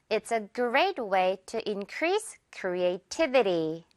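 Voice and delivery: This will create hundreds of jobs, word by word, very slowly; slow teaching read; very slow model. Shown as a demonstration. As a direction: spell the sentence out slowly for learners. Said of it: "creativity 뒤에 강세 주세요".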